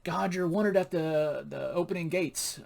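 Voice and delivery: lightly put-on announcer call; loudspeaker announcement. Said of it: "there's a loudspeaker coming up".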